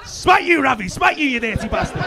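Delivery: loud, punched-out mock curse; mock divine smiting. Comic pretends God is smiting the vicar, mock wrathful shout. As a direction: play at calling down God's wrath, loudly. Acting out God's anger at vicar.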